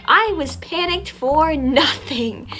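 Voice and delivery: high, drawn-out amazed exclamation; overjoyed relief. Retold or imitated. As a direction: stretch it out in huge relief. Acting out relieved thoughts after shots.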